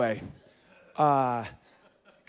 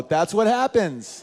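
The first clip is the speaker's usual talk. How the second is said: knowing women; 6 semitones higher, 5 dB louder, much slower than usual. Retold or imitated.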